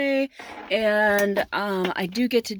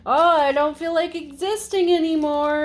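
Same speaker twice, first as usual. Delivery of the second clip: lightly voiced, higher whine for a car part; mock complaint from a fed-up object, pitched up; wheel's voice; 6 semitones higher, 3 dB louder than usual. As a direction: act out a wheel giving up, lightly. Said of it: "wheel well thingy is like".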